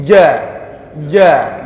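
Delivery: JA firm, air held behind the tongue; correct jim. Shown as a demonstration. Teacher repeating the right way, firm correct jim. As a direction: seal the palate before each JA. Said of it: "yang betul bukan begitu".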